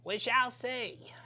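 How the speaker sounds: slow, high, theatrical delivery; dramatic slow voice. Pretend. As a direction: stretch it out like a movie villain. Mock-ominous echo of "we'll see.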